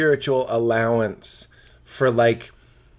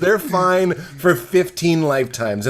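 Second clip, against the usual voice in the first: heated rant; 4 semitones higher, 3 dB louder than usual. Retold or imitated. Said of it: "I'm like".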